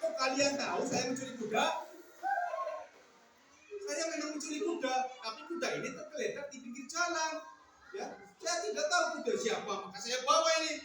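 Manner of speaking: acted noisy squabble; mock-indignant quarrelling voices; bickering. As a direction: argue over each other's accusations. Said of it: "Mereka ribut, bertengkar".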